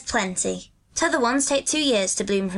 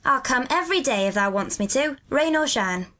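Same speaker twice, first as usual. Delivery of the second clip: sturdy Yorkshire lad, pitched up; stout; 6 semitones higher than usual. A narrator's reading. Dickon promises Mary he will come, stout boyish voice. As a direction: promise it firmly as a country boy. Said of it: "he answered stoutly".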